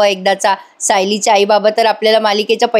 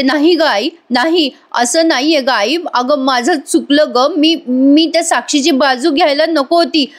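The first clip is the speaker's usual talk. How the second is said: fake pleading cry; 4 semitones higher than usual. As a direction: put on tears to beg the mother. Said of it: "Priya म्हणते". (आईकडे नाटकी रडत विनवणी)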